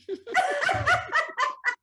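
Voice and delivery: high, loud tearful laugh; teary laugh. Real, not acted. Laughing while moved to tears.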